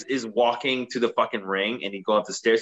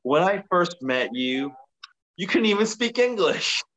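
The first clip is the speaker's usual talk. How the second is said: lightly mocked douchey wedding vows, pitch jumping up; douchey groom; 6 semitones higher than usual. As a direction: imitate a jerk groom teasing his bride. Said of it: "He lives up his douchiness".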